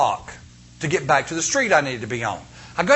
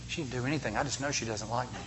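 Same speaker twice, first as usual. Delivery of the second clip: sulky complaint; 5 semitones lower, 12 dB quieter, faster than usual. Retold or imitated. Mock dialogue about Vera.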